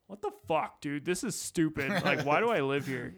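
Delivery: fed-up whine at the heat; mock fury at the weather; mock outrage. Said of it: "varying levels of just disgust".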